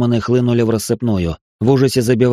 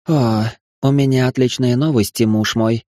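playful cooing; 2 semitones higher than usual. Acted. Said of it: "игриво проворковала Астарта".

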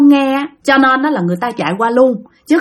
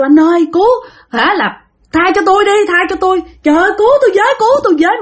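higher, pleading cries, retold; crying for help; 8 semitones higher, faster than usual. Girl pinned down by her boyfriend, begging for help in a high frightened voice. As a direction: beg him to let her go, voice pitched up in fear. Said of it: "bạn la".

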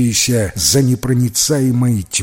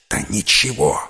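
strained; 5 semitones lower than usual. Acted. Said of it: "сдавленно ответил Петька".

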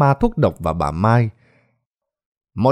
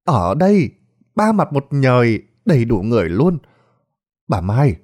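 accusing; 5 semitones higher than usual. Acted. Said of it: "Bà Lan lên tiếng".

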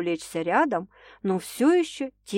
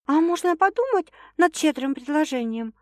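grumbling question; 8 semitones higher than usual. A narrator's reading. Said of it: "ворчливо поинтересовалась девушка".

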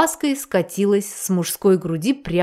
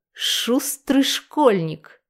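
slow mocking snort, a touch of scorn; sly teasing snort; 3 semitones higher, much slower than usual. A narrator's reading. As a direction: drawl it out with a snort. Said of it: "фыркнула Ирен".

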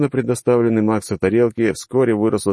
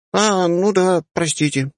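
unapologetic; 12 semitones higher, slower than usual. Acted. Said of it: "без особого раскаяния".

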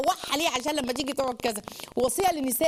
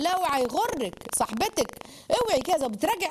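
mock stern scolding; 5 semitones higher than usual. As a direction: scold her like a strict husband. Umar scolding his wife. (توبيخ صارم مصطنع بصوت مرتفع)

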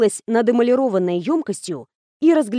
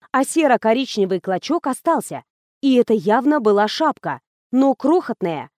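ordinary delivery, nothing marked

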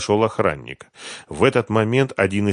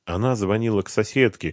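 usual speaking voice

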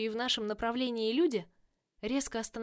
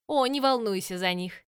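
loud, gleeful taunting villain voice; mock the heroes with cheerful menace; playful villainess; 6 dB louder than usual. Villain Virus speaks.

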